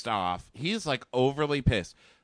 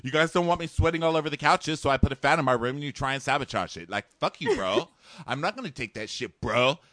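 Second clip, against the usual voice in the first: higher, fast bro rant; mock bro rant; 5 semitones higher, faster than usual. Host imitating Josh ranting about the fan sabotage, fast bro voice.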